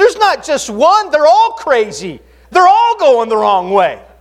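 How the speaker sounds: play-acted, high, loud, frantic panicked yelling. Retelling a joke, voicing a driver shouting back at a caller in put-on panic. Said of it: "He shouts back in a panicked voice".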